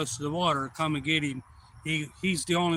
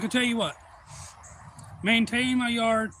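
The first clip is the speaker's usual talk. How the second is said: acted deal offer; 7 semitones higher than usual. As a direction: imitate a man laying out his terms. Voices owner proposing a deal.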